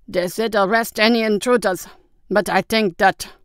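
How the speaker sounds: slowing to an unfinished thought; trailing off. A narrator's reading. Captain weighing intruders as he spots something, trailing off. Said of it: "he trailed off".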